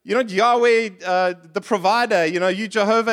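lightly hammed-up accusation; accusing God. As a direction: complain he was set up, half-playful.

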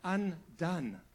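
mild slow lament. Retold or imitated. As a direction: stretch out the despair of the prophet. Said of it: "He says".

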